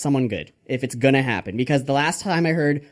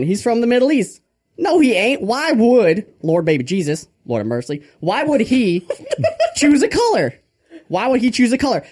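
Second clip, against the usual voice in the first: lightly voiced preacher, mock indignation; Father Grandfather; 3 semitones higher than usual. Preacher rebutting what some people say, mock-indignant. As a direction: argue from the pulpit, lifting high on the protests. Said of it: "motivational speech on the Lord Baby Jesus by Father Grandfather".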